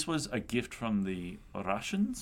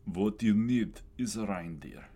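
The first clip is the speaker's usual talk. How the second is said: put-on Russian accent. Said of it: "Maybe avoid the accent".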